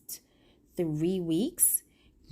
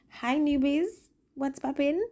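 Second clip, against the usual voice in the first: excited greeting; 10 semitones higher than usual. Real, not acted. Greeting new viewers.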